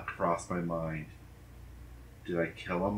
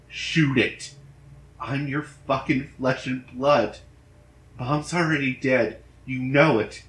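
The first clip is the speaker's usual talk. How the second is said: loud, high, frantic demand; desperate yelling; 5 semitones higher, 8 dB louder than usual. Acted. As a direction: shout at your father, rising to a scream. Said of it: "His tone was marked differently".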